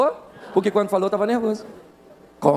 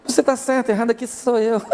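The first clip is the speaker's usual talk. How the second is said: mock agreement, pitched up; sarcastic concession; 3 semitones higher than usual. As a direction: concede with exaggerated, pointed insincerity. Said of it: "nesse tom com você, numa discussão".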